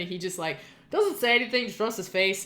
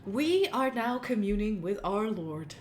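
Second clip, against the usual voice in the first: pious cousin; 2 semitones higher than usual. Acted. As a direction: coax him sweetly to come pray. Cousin Ether invites to worship.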